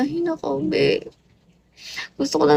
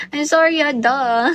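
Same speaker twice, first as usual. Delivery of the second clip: sassy; 5 dB louder than usual. Pretend. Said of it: "Ang sassy mo dun".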